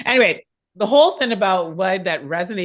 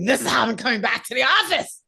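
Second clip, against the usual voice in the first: laughing quote; 2 semitones higher, faster than usual. Retold or imitated. Quoting what she told her boss.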